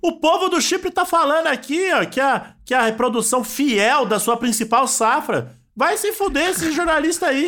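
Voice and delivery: high-pitched mock outrage; berserk rage. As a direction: rant at the journalist, pitch way up. (raiva exagerada de brincadeira)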